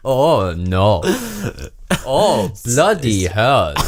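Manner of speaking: drawn-out, hammed-up foreign accent; camp German-sounding accent. Playing up to co-host's teasing, slow camp German accent. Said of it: "sound like a gay German at the moment".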